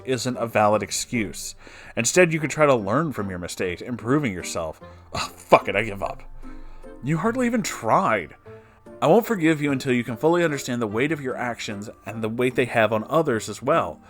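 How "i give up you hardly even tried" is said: usual speaking voice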